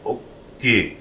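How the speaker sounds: "Oki" carefully split into two syllables; proper pronunciation. Shown as a demonstration. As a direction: stop after the O in "Oki", then a clear "ki". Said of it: "say it properly".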